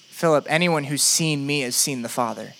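steady, deliberate reassurance; Jesus. Acted. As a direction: reassure a doubter, weighting each promise. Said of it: "Jesus says".

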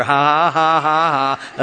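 deliberate, even ha-ha-ha; put-on laughter; forced laugh. Shown as a demonstration. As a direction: laugh on purpose until it sounds silly. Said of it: "you start laughing at yourself".

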